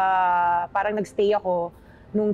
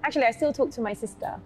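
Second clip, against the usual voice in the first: light British accent; 4 semitones higher than usual. Shown as a demonstration. Guest samples her British accent for host, light British accent. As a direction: speak English with a hint of British accent. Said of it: "sampulan mo naman kami".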